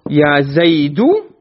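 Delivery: slow, drawn-out "Ya Zaidu"; calling someone. Shown as a demonstration. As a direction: demonstrate a plain vocative call. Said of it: "the i'rab of munada is what".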